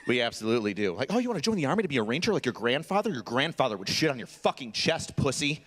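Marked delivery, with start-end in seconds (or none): 1.1-5.6 rapid-fire scornful taunt; quick, derisive needling; mocking drill sergeant.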